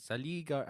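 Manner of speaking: "Sally" pitched high, like "seh-LEE"; foreign-sounding mispronunciation. Real, not acted. Host testing the name, "Sally" said as if foreign. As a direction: break off "Gar-" after a foreign-sounding "Sally". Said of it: "I don't think it's in a foreign language".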